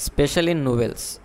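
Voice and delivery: slow, careful example; deliberate slow example; slow model answer. Shown as a demonstration. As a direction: read the good answer slowly. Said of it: "আনসারটা দেখেন".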